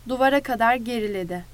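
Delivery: ordinary delivery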